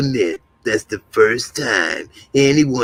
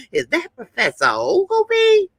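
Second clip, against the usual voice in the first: acted startled question. Retelling a shocked question in character.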